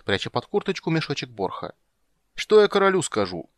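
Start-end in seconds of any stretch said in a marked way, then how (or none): 2.3-3.5 high, loud panicked wail; panicked cry. Acted. Soldier panics about the king.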